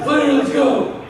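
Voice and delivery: high, loud mock call to a friend; high-pitched imitated yell; Rita. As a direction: holler it like an excited friend rallying someone. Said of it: "Rita's like".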